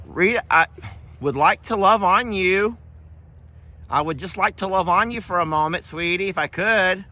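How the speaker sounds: put-on baby talk. Asking Rita the dog for cuddles, high doting baby talk. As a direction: coo it up high like talking to a puppy.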